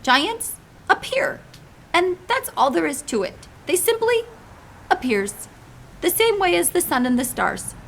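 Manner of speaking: big friendly giant pleading gently; giant's voice. Acted. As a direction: play the kindly muddled giant. BFG explains giants.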